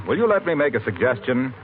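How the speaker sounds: ordinary delivery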